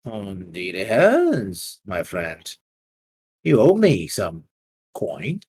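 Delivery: a calm loan shark's warning; slow menacing moneylender. Acted. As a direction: lean in and let it hang.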